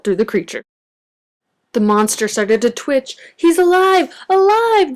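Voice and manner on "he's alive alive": squeaky, much higher cry of delight; excited exclaim. A narrator's reading. Little terrors exclaiming their creation lives, high and thrilled. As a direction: shriek it out with glee. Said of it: "the little terrors exclaimed".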